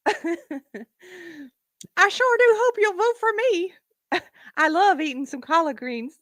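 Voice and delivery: slow, high fake Southern accent; mocking Southern Black accent, pitched high; Kamala Harris. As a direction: drag it out in a hammed-up Southern accent. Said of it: "fake Southern Black accent".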